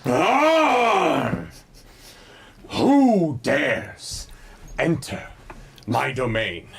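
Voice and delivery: loud roaring dragon challenge. Acted. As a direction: bellow it like an angry dragon. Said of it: "you hear a mighty".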